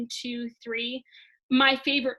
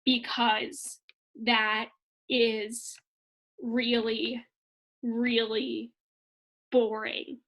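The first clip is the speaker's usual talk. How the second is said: too slow demo; much slower than usual. Shown as a demonstration. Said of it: "you don't wanna speak too slow".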